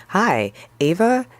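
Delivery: lightly voiced awkward guy; Ben's greeting. Man in coffee shop greets Ava, slow and high.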